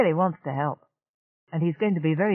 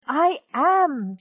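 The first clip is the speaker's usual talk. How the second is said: a high, louder exasperated burst; 11 semitones higher, 5 dB louder than usual. A narrator's reading. Channa admitting attraction to Simeon, exasperated. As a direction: throw it out, fed up with herself. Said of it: "she said with exasperation".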